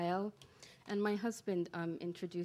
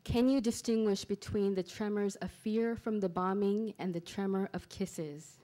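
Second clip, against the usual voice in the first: projected, deliberate opening line of a poem; poetry reading; 2 semitones higher, 7 dB louder than usual. Acted. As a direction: recite it to the room as verse. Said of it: "I'll start with that line".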